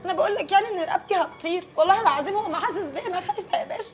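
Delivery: soft pleading. Acted. Informant pleading softly with the kind officer. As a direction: coax him gently, grateful. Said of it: "حضرتك بتكلمني حلو قوي".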